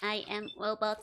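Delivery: lightly voiced sexy robot; a playful near-plain robot voice. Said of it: "This is my sexy robot voice".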